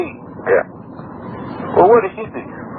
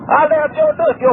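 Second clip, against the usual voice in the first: angry. Real, not acted. Phone quarrel, threat.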